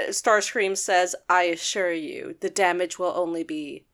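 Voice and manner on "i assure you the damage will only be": lower, softer, slow silky menace; sinister calm villain. Retold or imitated. Starscream reassuring Knockout before damaging him, low slow menace. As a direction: purr the threat slowly, mock villain.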